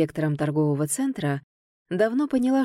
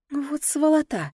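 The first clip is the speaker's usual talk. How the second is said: higher, slow angry hiss through teeth; through gritted teeth; 8 semitones higher than usual. Acted. Heroine swearing under the table at Ganer's insults, teeth gritted. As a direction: grit your teeth and spit it out. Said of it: "заскрипела зубами я".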